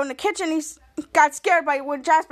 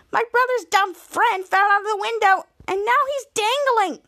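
higher-pitched, mock-frantic phone call; urgent plea; 7 semitones higher than usual. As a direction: urgently report a mishap, pitched up. Reporting emergency on the phone.

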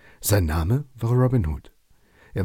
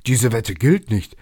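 louder, slow and furious; angry shout; 3 semitones higher, 6 dB louder, slower than usual. Acted. Losing forester shouts at Robin, angry and slow. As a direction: yell it, refusing to pay. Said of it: "schrie er erbost".

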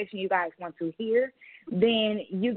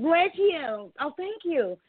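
higher, mock-sweet exchange; other person's exchange; 6 semitones higher, much slower than usual. Imitating others who get thanked for blessing, mock sweet. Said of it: "The other person was like".

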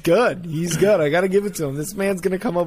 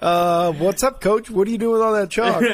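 higher-pitched playful greeting to a coach; playfully puzzled shopper, pitched up; curious bystander; 5 semitones higher, 4 dB louder than usual. Acted. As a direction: lift the voice, mock-casual and nosy. Acts out greeting coach at store.

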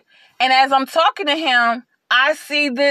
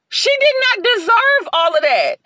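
high, louder and crying; tearful remorse; 10 semitones higher, 4 dB louder than usual. Real, not acted. Admitting to her viewers she wronged the cashier, close to tears. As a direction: voice breaking with guilt.

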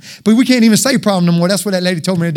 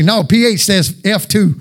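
mock teacher voice; slower than usual. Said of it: "Then they put, say".

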